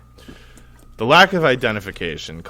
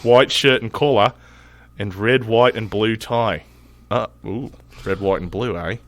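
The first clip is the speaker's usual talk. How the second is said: mild Australian accent. Shown as a demonstration. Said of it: "my shittiest Australian accent".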